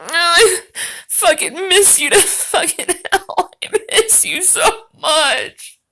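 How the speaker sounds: hammed-up fake crying through laughter; mock sobbing. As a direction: blubber it, clearly joking.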